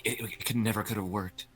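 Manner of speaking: wistful. Pretend. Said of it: "kiss her once and be like".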